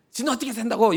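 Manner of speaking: scornful jab at the preacher; mocking retort. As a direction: throw it back sarcastically. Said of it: "이렇게 그런 마음 말고".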